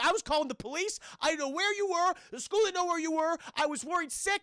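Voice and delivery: lightly voiced mom, worried and scolding. Mother scolding her late son.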